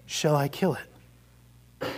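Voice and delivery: slow, soft, grave question; solemn angel. Acted. Angel quietly offering to kill the lizard, slow and grave. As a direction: ask it slowly and gravely, leaning in.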